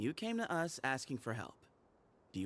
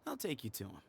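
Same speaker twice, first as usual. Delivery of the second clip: knowing; 4 semitones higher than usual. Acted. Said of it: "He sounds very sly and cocky".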